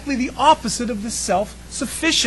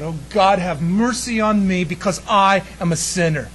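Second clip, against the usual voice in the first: crying out. Retold or imitated. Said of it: "he cries out".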